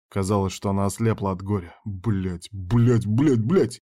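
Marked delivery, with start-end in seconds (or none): 1.8-3.8 building frustrated cursing. A narrator's reading. Narrator curses seeing her tears.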